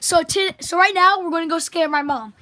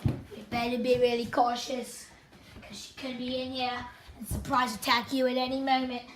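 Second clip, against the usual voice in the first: soft sneaky narration; hushed; 6 semitones lower, 11 dB quieter than usual. Pretend. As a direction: narrate like stalking prey. Sneaking up on mom.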